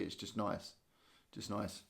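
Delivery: yawning. Real, not acted. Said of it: "Sorry about the yawning".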